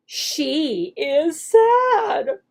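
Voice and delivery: very slow clear reading; slow modeled sentence. Shown as a demonstration. Teacher reads the completed sentence, very slow. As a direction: stretch each word for the child. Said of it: "teacher acts out the lesson".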